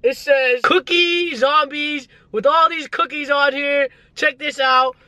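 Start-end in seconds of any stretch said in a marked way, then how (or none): 0.6-2.1 tag. Real, not acted. Reads sign slowly.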